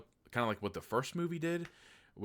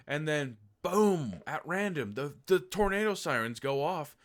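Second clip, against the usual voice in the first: excited retelling; 7 semitones higher, 6 dB louder than usual. Retold or imitated. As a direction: voice jumps higher and louder at the boom. Sudden tornado sirens story.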